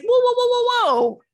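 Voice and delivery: loud, high string of whoas; alarmed objection. Acted. Stopping a man's unwanted hookup details, loud and alarmed. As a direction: cut someone off in mock alarm.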